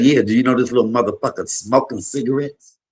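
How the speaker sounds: mother going off. Retold or imitated. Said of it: "And she's going off".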